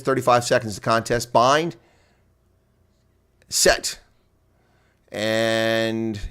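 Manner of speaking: brisk live rugby commentary calling each phase; play-by-play. Acted. Streamer calls the rugby for viewers, live play-by-play. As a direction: call the match as it unfolds.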